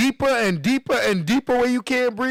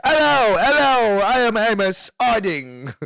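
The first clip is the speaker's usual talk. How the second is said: mock British accent, hellos pitched up and loud; 4 dB louder than usual. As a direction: put on a hammed-up British greeting. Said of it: "got the British accent".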